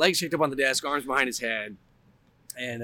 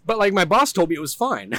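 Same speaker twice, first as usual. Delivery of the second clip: defensive self-quote; 6 semitones higher, 5 dB louder than usual. Retold or imitated. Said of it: "And I was like".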